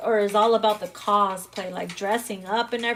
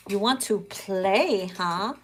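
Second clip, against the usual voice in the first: slow, low, teasing purr; 3 semitones lower, slower than usual. Pretend. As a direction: tease them knowingly. Teasing the listener.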